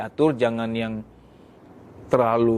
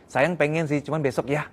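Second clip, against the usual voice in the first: gentle refusal. Shown as a demonstration. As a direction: turn him down sweetly. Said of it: "ngomongnya yang baik". (istri menolak dengan halus)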